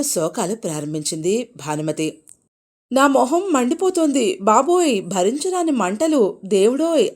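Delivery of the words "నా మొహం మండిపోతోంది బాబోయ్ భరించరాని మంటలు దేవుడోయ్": high, louder anguished wail; wailing in pain. A narrator's reading. Wife wailing that her face is burning. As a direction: cry out as if your face burns. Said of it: "కేకలు వేయడం".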